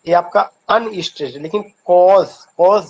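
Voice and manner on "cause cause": "cause" punched louder as the stressed syllable; teacher's emphatic, louder "cause". Shown as a demonstration. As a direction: lean hard on "cause". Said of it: "stressed आपको करना पड़ता है".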